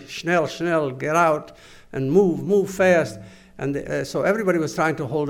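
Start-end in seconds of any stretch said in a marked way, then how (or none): 0.1-3.2 raised-voice imitation of guards' commands; retold shouted orders. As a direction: urge them on, louder, a mild mock shout. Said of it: "screaming and shouting".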